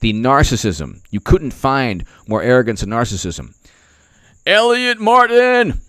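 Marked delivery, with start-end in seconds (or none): 4.5-5.8 high, drawn-out, loud greeting; long happy shout of a name; calling out a name. Real, not acted. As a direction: sing out the name to a viewer. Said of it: "greeting a chat viewer".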